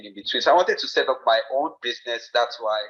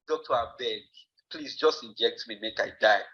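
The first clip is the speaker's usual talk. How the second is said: Nigerian Pidgin; 4 dB quieter than usual. Retold or imitated. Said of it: "that was how I said it".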